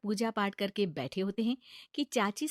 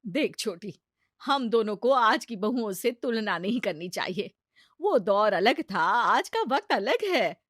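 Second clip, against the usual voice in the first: reasoning mother-in-law; 6 dB louder than usual. Acted.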